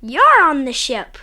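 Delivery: put-on excited child. Child excitedly explains game.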